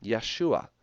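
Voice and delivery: Yeshua repeated clearly as "yeh-SHOO-ah"; short "yeh" opening Yeshua, then "shoo-ah"; correct pronunciation. Shown as a demonstration. Teacher confirming that's it, Yeshua pronounced clearly with "yeh". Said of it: "the way that you pronounce that is".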